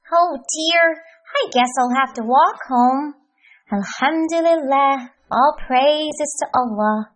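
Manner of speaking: lightly voiced, contented cheerful fellow; cheerful Happy Hamdi. Hamdi accepting his broken car, lightly voiced cheerful calm.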